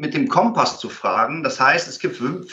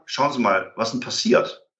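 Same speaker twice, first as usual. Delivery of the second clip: calm reply; 4 semitones lower than usual. Retold or imitated. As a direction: settle them down gently. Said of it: "dann kannst du immer in ruhiger".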